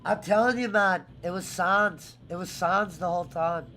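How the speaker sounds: put-on light Irish accent, impersonating a mate. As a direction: do a quick Irish lilt. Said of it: "that was actually the best Irish accent you've done yet".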